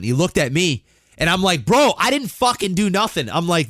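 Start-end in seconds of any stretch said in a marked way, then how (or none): 1.6-3.3 higher-pitched plea of innocence; retold protest. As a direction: protest your innocence, re-enacted without shouting. Retells protesting innocence to attacker.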